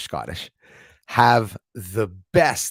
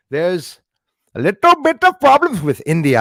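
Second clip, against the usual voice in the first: high, loud Indian accent impression; 9 semitones higher, 8 dB louder than usual. Host mimicking Indian news in an Indian accent. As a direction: throw on a big Indian accent for the line. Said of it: "I love the Indian accent, too".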